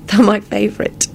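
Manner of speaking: high, grateful woman's voice; gratefully, pitched high. A narrator's reading. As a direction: sound touched by the gift. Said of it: "she said gratefully".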